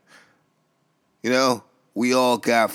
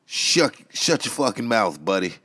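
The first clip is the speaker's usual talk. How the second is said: angry snap; 2 semitones higher than usual. Acted. Host snapping at caller.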